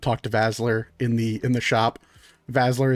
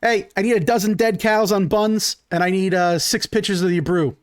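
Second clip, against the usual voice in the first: louder, higher shout to kitchen; calling an order; 5 semitones higher, 4 dB louder than usual. Acted. Halfling calling order to chef, louder. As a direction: bark the order back to the grill. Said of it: "He goes".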